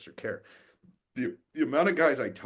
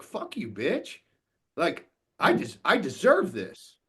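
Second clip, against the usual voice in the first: imitating resentful inner voice; 7 semitones higher, 6 dB louder, slower than usual. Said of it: "in his head, he's like".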